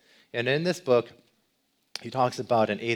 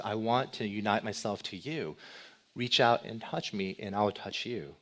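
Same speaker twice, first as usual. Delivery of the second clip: gentle invitation; 4 dB quieter than usual. Pretend. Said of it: "He's gentle, he's patient".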